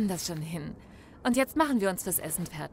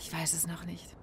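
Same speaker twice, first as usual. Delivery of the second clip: hushed secret; 9 dB quieter than usual. Acted. Lovers plan secret announcement.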